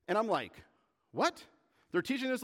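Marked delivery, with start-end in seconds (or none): 1.1-2.4 high, startled retold reaction; incredulous. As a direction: pop it up in disbelief. Retold disbelief at students' teaching.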